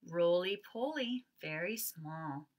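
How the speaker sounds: slow, rhythmic read-aloud; picture book reading. Acted. Teacher reading the picture book refrain to kindergarteners.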